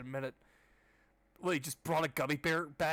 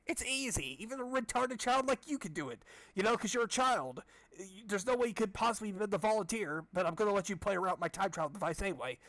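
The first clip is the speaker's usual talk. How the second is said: much higher, taunting doctor voice; high mocking voice; 5 semitones higher than usual. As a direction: sneer down at the kid in a high voice.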